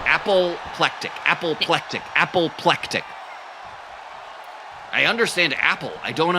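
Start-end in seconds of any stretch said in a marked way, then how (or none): 0.1-3.0 tongue twister. Shown as a demonstration. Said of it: "Can you say that three times fast?".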